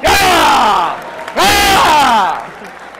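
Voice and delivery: loud whooping yeah, yeah; excited teacher whoop; cheering. Real, not acted. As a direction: cheer the student on. Cheering the student's shout.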